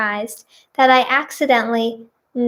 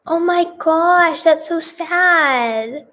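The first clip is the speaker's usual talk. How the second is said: sympathetic; 5 semitones higher, slower than usual. Real, not acted. Reacting to a sad wedding story.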